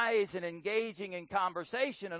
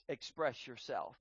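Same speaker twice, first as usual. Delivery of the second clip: low soft voice; 7 semitones lower, 9 dB quieter than usual. Shown as a demonstration. Preacher showing husbands a soft answer, much softer. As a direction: drop much lower and much softer. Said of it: "Try in a very low voice".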